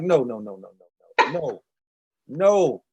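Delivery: hammed-up Jamaican accent refusing a pricey plate; fake Jamaican accent. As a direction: tease out "no, no" in a mock Jamaican lilt, swelling at the end. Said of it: "in my fake Jamaican accent".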